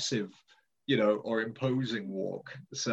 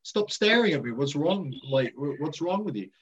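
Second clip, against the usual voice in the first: mock confrontation; 2 semitones higher than usual. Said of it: "be like".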